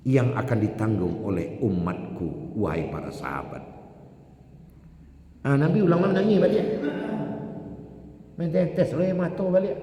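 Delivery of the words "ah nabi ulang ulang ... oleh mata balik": fervent narration. Real, not acted. Preacher telling how the Prophet wept again, fast and fervent. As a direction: rush it out with fervour. Dramatic retelling of weeping.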